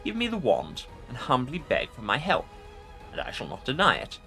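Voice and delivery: haughty ancient undead king; arrogant lich. Acted. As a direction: order them about from on high. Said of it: "Arrogance rings in the Lich's voice".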